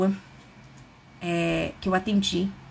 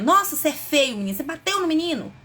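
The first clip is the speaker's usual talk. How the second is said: wrong way, shaming; 4 semitones higher, 3 dB louder than usual. Shown as a demonstration. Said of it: "seu filho fizer uma atitude errada ou feia".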